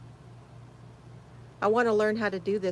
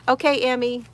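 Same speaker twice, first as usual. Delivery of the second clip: usual speaking voice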